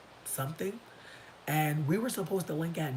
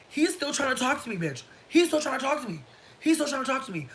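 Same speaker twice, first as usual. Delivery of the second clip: higher, exasperated repetition; 10 semitones higher, 5 dB louder than usual. Real, not acted. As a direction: repeat it in disbelief.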